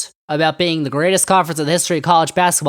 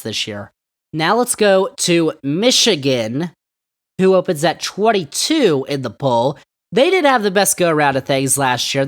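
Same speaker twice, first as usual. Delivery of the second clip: mocking boaster. Sports host mocks the Big Ten's overrated boasting, mocking.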